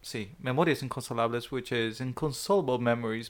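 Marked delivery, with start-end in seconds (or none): 0.0-1.5 quick Latin American Spanish accent on the title. Shown as a demonstration. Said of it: "I was using my Latin American Spanish accent".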